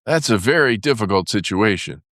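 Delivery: usual speaking voice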